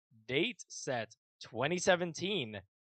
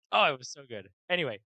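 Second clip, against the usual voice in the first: ordinary talk, nothing marked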